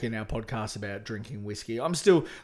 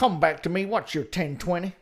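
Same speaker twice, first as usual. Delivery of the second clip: loud trucker radio call; 4 semitones higher, 3 dB louder than usual. Pretend. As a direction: hail the other truck over the CB. CB radio role play.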